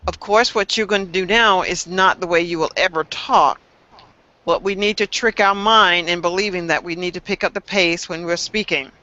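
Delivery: normal talking voice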